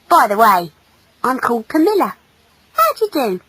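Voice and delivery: lightly voiced girlish character; a hint of a keen young girl; friendly female. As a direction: chat to him with bright encouragement. Female warms to Conrad.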